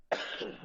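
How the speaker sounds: real rough chesty cough; smoker's cough. Real, not acted. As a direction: hack out a sick cough. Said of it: "I'm sounding like I have co-, uh, smoker's cough".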